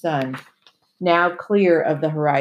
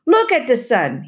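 put-on a commanding old sailor, louder; ordered; 7 semitones higher, 5 dB louder than usual. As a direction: bark the order at the boy. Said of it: "he ordered".

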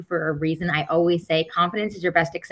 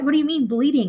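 high, louder disbelieving question; shocked; 8 semitones higher, 4 dB louder than usual. Retold or imitated. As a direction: blurt it out in disbelief. Her shocked reply to manager.

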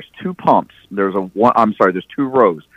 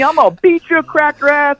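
much higher mock angry threat; mock yelled threat. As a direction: yell the threat in a high voice. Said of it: "he's still yelling at me".

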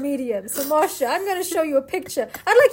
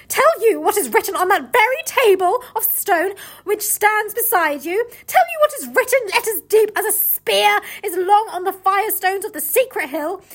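witch voice; 6 semitones higher, 4 dB louder than usual. Acted. Reading the witch's lines.

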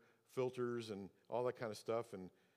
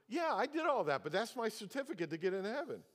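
imitating the owner; 8 semitones higher, 3 dB louder than usual. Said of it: "And he goes".

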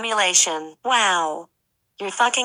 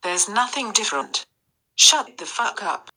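put-on British accent. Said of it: "you're fucking British now".

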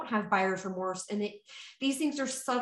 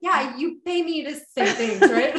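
sarcastic; 3 semitones higher, 7 dB louder than usual. Retold or imitated. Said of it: "you could tell she said it like".

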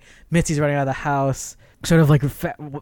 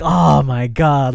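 retold dismay; 5 dB louder, much slower than usual. Retells audience reaction when she tripped.

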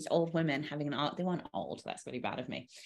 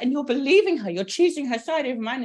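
high, loud, wounded complaint; dramatic accusation; 8 semitones higher, 6 dB louder than usual. Retold or imitated. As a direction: accuse her friend of betrayal. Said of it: "She was so dramatic".

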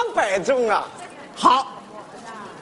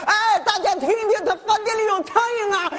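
higher, fake outcry for the whole restaurant to hear; hammed-up shout to the room; 6 semitones higher than usual. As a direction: raise a mock alarm so everyone hears. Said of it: "你这样喊老板就害怕".

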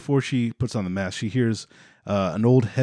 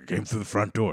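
hushed whispered intruder reply; mock whisper; 4 dB quieter than usual. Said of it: "it's like".

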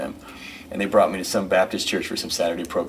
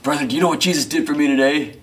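higher, louder fervent question; fervent choir man; 6 semitones higher, 4 dB louder than usual. Retold or imitated. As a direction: lean in close with churchy fervour. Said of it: "he gets right over my face and he says".

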